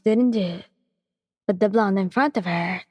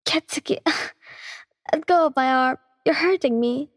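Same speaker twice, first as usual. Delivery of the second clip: a lightly voiced Yan; 6 semitones higher than usual. A narrator's reading. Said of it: "said in a loud voice".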